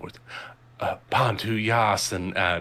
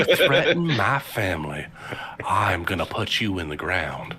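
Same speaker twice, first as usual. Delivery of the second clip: put-on angry Southern Belle accent. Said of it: "I can't do an angry Southern Belle accent".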